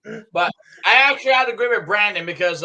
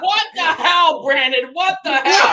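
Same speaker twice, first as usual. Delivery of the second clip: outraged disbelief; 7 semitones higher, slower than usual. Real, not acted. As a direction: cry out in disbelief. Outraged at prank.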